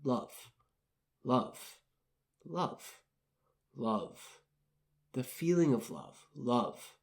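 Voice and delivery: slow, tender repetitions of love; soft repeated love. Shown as a demonstration. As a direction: softly repeat love, letting each one land. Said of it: "You might say something like".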